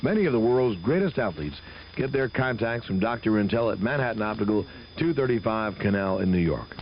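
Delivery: brisk radio ad read. Acted. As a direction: sell it like a live radio spot. Host reads live optician ad.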